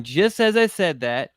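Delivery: ordinary talk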